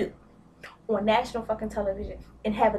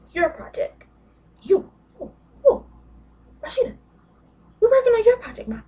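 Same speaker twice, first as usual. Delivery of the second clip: much higher, loud shriek; fed-up shriek at Rashida; exasperated yell; 12 semitones higher, 7 dB louder than usual. Real, not acted. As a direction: scream it at the spoiled brat.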